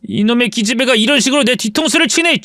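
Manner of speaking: indignant brother scolding his sister; angry older brother. Acted. Brother quarreling with his sister over money, indignant. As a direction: act a brother who feels betrayed.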